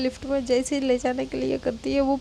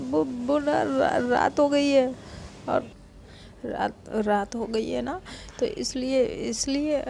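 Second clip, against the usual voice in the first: softer, coaxing bedtime voice; soothing hush; 6 dB quieter than usual. Retold or imitated. Anu coaxing the girl to bed, soft and soothing. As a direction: lull her gently toward sleep. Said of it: "कहती".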